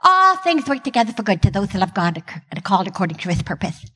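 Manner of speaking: put-on "All things work together" with a childish lisp. Shown as a demonstration. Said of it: "I lisped".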